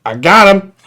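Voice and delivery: battered survivor. Retold or imitated. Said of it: "crawled his way out of the crater and went".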